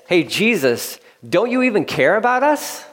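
high, pleading cry to Jesus; pleading disciples. Retold or imitated. Frightened disciples plead with sleeping Jesus, high and pleading. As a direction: beg him to care, pitch rising up. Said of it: "Another way to say that is".

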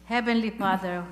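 earnest spoken prayer to God. Acted. Pastor leading the church in closing prayer, devout. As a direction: pray it over the congregation, steady and devout.

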